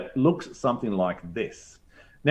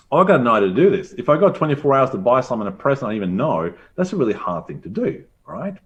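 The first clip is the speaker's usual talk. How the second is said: overwhelmed user; faster than usual. Retold or imitated. Teacher voicing an overwhelmed gift buyer, fast and flustered. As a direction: rattle it off like a stressed gift buyer. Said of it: "So overwhelmed by meaning that".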